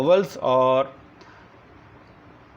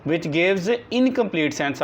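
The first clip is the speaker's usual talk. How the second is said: very slow, word by word, for copying down; slow dictation; 3 semitones higher, much slower than usual. Shown as a demonstration. Teacher dictating a definition to the class, slow and deliberate. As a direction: dictate each word so the class can write it.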